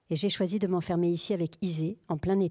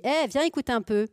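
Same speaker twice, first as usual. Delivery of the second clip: higher, louder call to the cat; raised-voice summons; 5 semitones higher, 6 dB louder than usual. Acted. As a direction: call someone over from across the room. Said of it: "Je le dis tout haut, j'appelle la chatte".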